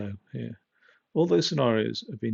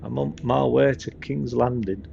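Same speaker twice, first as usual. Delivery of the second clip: louder British Northern accent impression; Sean Bean; 5 dB louder than usual. Player playing Ned Stark to himself, Northern accent impression. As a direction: put on a hearty Northern English accent. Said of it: "It sounds like Sean Bean".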